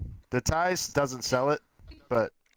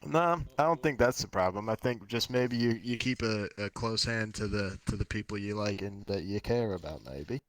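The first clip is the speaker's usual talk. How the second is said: put-on Australian accent; 4 semitones lower, 4 dB quieter than usual. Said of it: "get a weird Australian accent while you said that".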